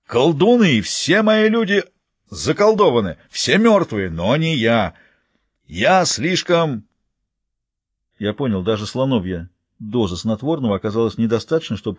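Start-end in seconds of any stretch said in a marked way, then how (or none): 0.0-6.8 higher, slow, halting warrior voice in broken grammar; a dazed giant queen forcing words out; slow stumbling giantess; broken-speech giantess. Acted.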